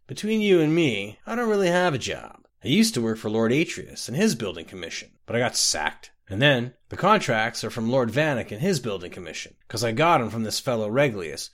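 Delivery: tipsy boastful rambling; a drunk man bragging over his mug; slurry, pleased-with-himself drunk; drunk Scotty. Acted.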